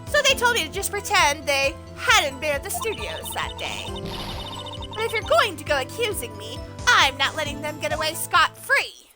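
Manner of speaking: a lightly voiced bossy old lady. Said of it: "I'm doing my old lady voice".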